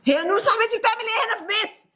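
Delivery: high, shocked demand; wife confronting her cheating husband, shocked and high; shocked outrage. Acted. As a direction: catch them red-handed. Wife catches husband with friend.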